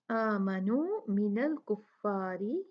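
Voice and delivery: drawn-out recitation of the verse; slow recitation. Shown as a demonstration. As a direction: recite slowly with stretched vowels.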